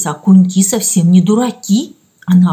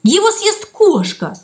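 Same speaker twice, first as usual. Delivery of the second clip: high, slow tearful wail; crying; 10 semitones higher, slower than usual. A narrator's reading. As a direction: wail it as tears come. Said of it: "Стеша заплакала". (плача)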